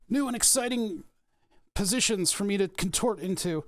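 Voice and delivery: high, bright mock enthusiasm; sarcastic. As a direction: oversell it sarcastically. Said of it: "sarcastic comment".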